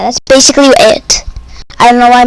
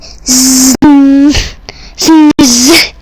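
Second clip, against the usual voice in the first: mock snoring. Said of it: "the dog is, like".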